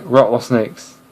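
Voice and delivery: "rattlesnakes" in an imitated British accent; mock-British pronunciation. Shown as a demonstration. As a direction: say "rattlesnakes" like a Brit. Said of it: "the British is gonna say".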